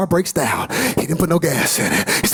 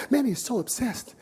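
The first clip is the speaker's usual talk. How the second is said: whisper; 3 semitones higher, 8 dB quieter than usual. Real, not acted. Hushed build about Manny.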